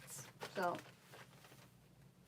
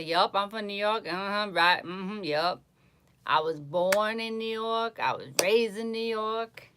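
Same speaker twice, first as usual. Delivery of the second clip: louder, proud and emphatic New York reply; proud New Yorker; 2 semitones higher, 6 dB louder than usual. Retold or imitated. Answering strangers who ask, loud proud New York reply. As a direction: insist you're from New York, chest out. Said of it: "I say".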